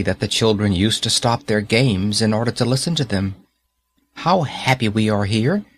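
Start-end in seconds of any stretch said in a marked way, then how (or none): 4.2-5.6 happy cry. Acted. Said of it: "they cried to each other".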